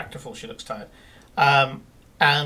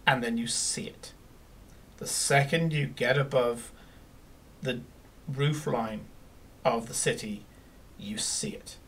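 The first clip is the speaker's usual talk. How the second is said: whispered, awed narration; hushed reveal; 4 semitones lower, 8 dB quieter than usual. A narrator's reading. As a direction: draw them in with a hush.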